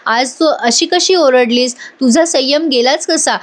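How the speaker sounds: slow tender reassurance; gentle consoling. Acted. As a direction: ease her down slowly and kindly. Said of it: "तिला समजवतो आणि म्हणतो".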